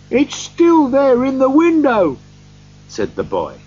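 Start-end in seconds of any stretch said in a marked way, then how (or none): 0.1-2.2 put-on excited boy. A narrator's reading. Boy calling up to Scrooge about the window, excited. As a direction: call it up eagerly like a young boy.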